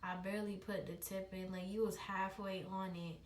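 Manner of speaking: low soft whispering; calm her down in a hush. Retold or imitated. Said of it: "He was like".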